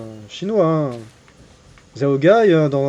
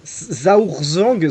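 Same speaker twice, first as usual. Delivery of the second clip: name drawn out in an imitated Chinese accent; imitation Chinese accent, swooping tones; mock Chinese accent. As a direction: put on an exaggerated Chinese accent. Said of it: "j'adore imiter l'accent chinois".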